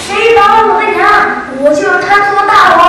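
high pained cry; pained shout. Acted. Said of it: "痛得他直喊".

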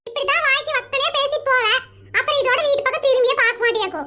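lightly voiced sister, needling her brother; older sister voice. Sister voice again.

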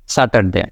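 স্যাটারডে with sa and r sounded; the wrong স্যাটারডে, r pronounced; wrong Saturday. Shown as a demonstration. Teacher shows the wrong form to avoid.

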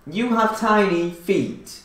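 slow, each word mouthed clearly; over enunciating. Shown as a demonstration. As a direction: spell it out with your lips. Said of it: "Say it one, one word at a time".

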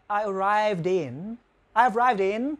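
ARRIVED IN with the D carried onto in; linked D. Shown as a demonstration. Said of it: "sẽ luyến sang âm in là". (luyến âm d sang in trong arrived in)

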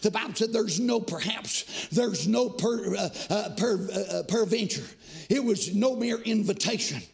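rhythmic chanted preaching, rising to shouts; fiery revival preaching. Acted. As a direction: whoop the sermon over the organ. Preaching at full force with music.

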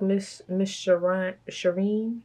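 normal talking voice

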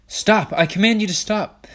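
loud, high royal command; commanding shout. A narrator's reading. Char ordering Ella to stop, loud high commanding shout. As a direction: bark the order to halt her.

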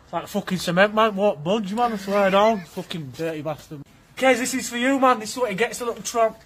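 deep low growl. Acted.

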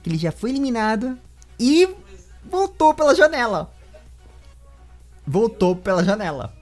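high, loud showman's exclamation; hyped-up announcement. Pretend. Host teasing the champion's comeback, mock-dramatic shout.

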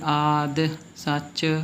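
ਆਦਿ drawn out, light i after the d; slow ਆਦਿ ਸੱਚ with released d; sounded short i. Shown as a demonstration. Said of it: "ਦੱਦੇ ਦੀ ਸਿਹਾਰੀ ਦੀ ਆਵਾਜ਼".

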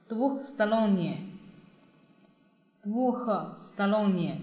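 двухсторонние drawn out slowly, every syllable clear; slow model pronunciation. Shown as a demonstration. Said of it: "teacher models the word slowly".

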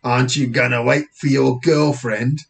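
lightly voiced British officer; a hint of a nosy cop; policeman. Officer questioning boy about friend, policeman voice.

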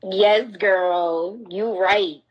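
a touch of a fawning fan voice, lightly done; gentle mocking echo of an amen comment; mocking an agreeing commenter. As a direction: lightly parrot the girl who says amen. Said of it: "for the girl who amen".

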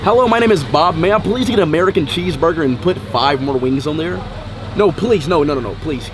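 lightly put-on American accent. Shown as a demonstration. Customer ordering a cheeseburger, mock American accent. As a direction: do a stock American ordering food. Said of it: "this is the American accent".

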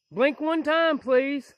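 loud plea to the spirit; loud call to a ghost in the woods. Real, not acted. Calling out to a spirit.

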